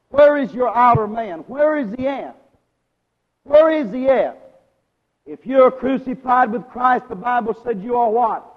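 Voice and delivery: preaching. Real, not acted. Preacher challenging congregation about the outer man, insistent preaching. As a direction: press each question on the congregation.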